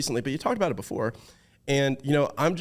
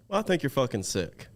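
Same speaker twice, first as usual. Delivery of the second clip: playful shout; 4 dB quieter than usual. Real, not acted. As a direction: call it out playfully. Joking praise, shout heard.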